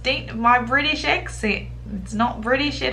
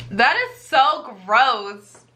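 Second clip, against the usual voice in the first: disgusted; 4 semitones lower than usual. Real, not acted. Reacting to porta potty sex.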